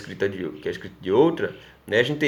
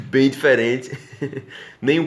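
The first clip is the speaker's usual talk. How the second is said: laughing; 2 semitones higher than usual. Real, not acted.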